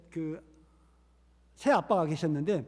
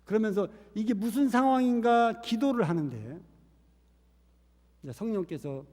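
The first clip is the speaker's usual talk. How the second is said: ordinary talk, nothing marked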